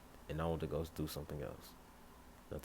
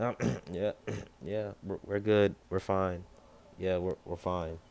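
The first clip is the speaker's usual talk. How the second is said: loud, rushed, throat-clearing reassurance; flustered cover-up; 3 semitones higher, 7 dB louder than usual. Acted. Caught with Weiss, he loudly assures Ruby they're fine. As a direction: cover it up fast.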